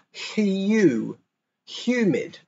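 "Hue" then "humid", Y glide after H; Y sound again. Shown as a demonstration. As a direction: model "humid" with the Y. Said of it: "there's a Y sound".

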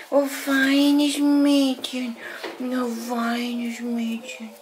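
high, slow praise; dog praise voice. Real, not acted. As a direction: stretch out the praise sweetly.

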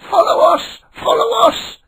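high squeaky calls of playful dolphins. A narrator's reading. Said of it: "they squeaked".

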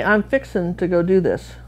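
"I'm fixin' to go do this," with a slight Texan lilt; a light Texas accent on "fixin'"; Texan phrase. Retold or imitated. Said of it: "And they say".

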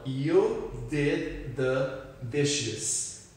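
very slow and careful; slow model sentence. Shown as a demonstration. Teacher repeating the example to students, very slow. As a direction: drag every word out for the class.

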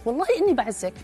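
a hint of her sweet assurance; quoting a woman. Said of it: "أو هي تقول لك".

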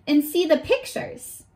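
gentle, expressive picture-book reading; reading a story to children. Acted. Teacher reads a picture book to her young class, storybook voice. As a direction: read it like story time for little kids.

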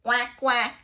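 loud, short quacks; punchy double quack; duck quacking. Acted. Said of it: "says the duck".

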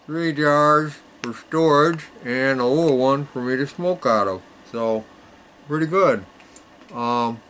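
talking around a pipe stem; words muffled by pipe in mouth. Real, not acted. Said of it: "talking with my pipe in my mouth is not a good thing".

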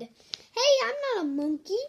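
indignant protest. Acted. Reader objecting to the book's words, mock indignant. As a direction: protest like you've been insulted.

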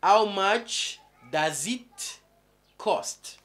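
how much drawn out slowly, rising, then cost; teacher modelling the short question slowly; slow drawn-out model. Shown as a demonstration. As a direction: stretch the question slowly for the class. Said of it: "Ou simplement".

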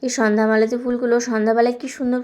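talking with a toothbrush in mouth; while brushing teeth. Real, not acted. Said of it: "brush করতে করতে". (দাঁত brush করতে করতে কথা)

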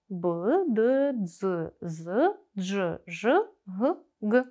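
«б», «д», «дз», «з», «дж», «ж», «г», «г» as separate voiced sounds; each consonant from «б» to «г» with a short schwa, spaced out; isolated voiced consonants. Shown as a demonstration. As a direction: sound out «б», «д», «дз», «з», «дж», «ж», then breathy «г», hard «г». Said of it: "тоді чуються дзвінкі приголосні".

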